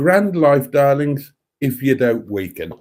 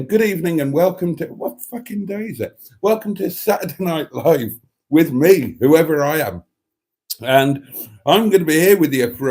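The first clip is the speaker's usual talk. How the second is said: fresh bright restart; 3 semitones higher than usual. Shown as a demonstration. Host restarts greeting to his audience with more energy. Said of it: "start again".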